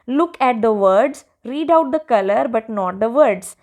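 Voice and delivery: textbook instruction read out very slowly; slow read-aloud. Acted. Teacher reading the worksheet task aloud to pupils, slow and clear. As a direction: read the task line deliberately, word by word.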